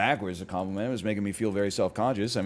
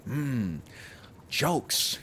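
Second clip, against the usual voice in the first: put-on theatrical villain voice; Joker; 2 semitones higher than usual. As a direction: relish each word, with pauses, like a villain. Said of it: "that was more of a Joker impression".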